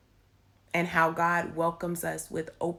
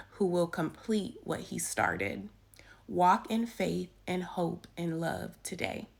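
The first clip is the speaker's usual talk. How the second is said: devotional reading. Acted. Reads the devotional aloud.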